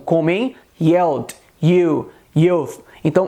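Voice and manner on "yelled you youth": "yelled", "you", "youth" with clear Y onsets; consonant Y. Shown as a demonstration. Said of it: "um som de Y".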